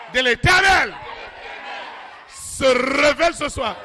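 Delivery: fervent preacher's rebuke, rising and falling; preaching rebuke. Acted. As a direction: preach against the devil with conviction.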